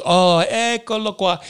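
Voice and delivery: high, delighted Italian exclamation, lightly voiced; a stranger who just found who she was looking for; surprised Italian woman. Artist woman greets the man she was sent to find, high and delighted. Woman recognizes him at cafe.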